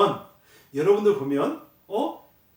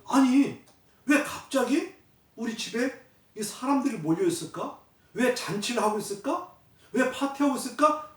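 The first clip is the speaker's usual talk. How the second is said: put-on higher, baffled questioning as the older brother; puzzled brother; 5 semitones higher than usual. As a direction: voice the brother's confusion at the party.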